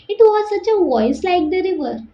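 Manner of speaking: slow, careful read-aloud of an English extract; story reading. A narrator's reading. Teacher reading the river's words to students, slow and deliberate. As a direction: read the passage slowly to the class.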